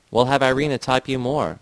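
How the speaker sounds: a touch of an upset shout. Acted. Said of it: "Vera shouted".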